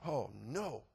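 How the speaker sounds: low, soft sinking groan of words; dismayed. Retold or imitated. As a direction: let the heart sink, quietly. Dreading inward reaction to game.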